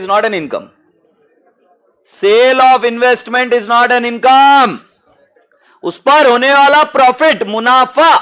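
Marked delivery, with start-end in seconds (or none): 2.1-4.8 higher, drawn-out, ringing teacher's call; loud and slow, swelling on "income"; emphatic repeat. Real, not acted. Teacher repeats rule with force. 5.8-8.1 raised, higher teacher's voice; high, forceful classroom call; emphatic teaching. Real, not acted. Teacher hammers home the contrast.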